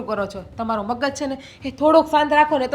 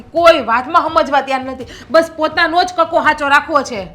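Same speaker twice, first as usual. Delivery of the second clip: louder, fed-up complaint; exasperated outburst; 2 semitones higher, 6 dB louder than usual. Acted. Wife venting at stubborn husband, exasperated and loud. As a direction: throw up your hands and vent.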